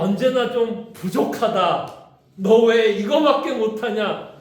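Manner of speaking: slow, pressing scold of a disappointed parent. Retold or imitated. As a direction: lean into the reproach, slow and heavy. Voicing a critical parent.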